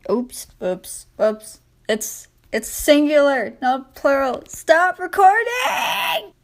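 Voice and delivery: real startled oops, then high cry; real flub. Real, not acted. Reader catching a misread, startled and shouting stop. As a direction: break off startled at own slip. Reader flubs and stops recording.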